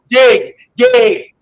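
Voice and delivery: impatient shout. Acted. Telling a man to dig in his pocket, impatient shout. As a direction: shout it to hurry them up.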